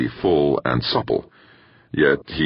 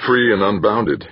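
echoing; 6 semitones higher than usual. A narrator's reading. Bracknell echoes her words, plain male voice. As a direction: repeat "free" flatly back at her. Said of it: "he echoed".

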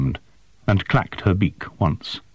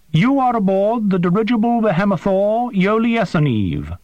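high, precise voice of a small winged creature; formal, formal alien creature, pitched high; 11 semitones higher than usual. A narrator's reading. Creature Prath speaks.

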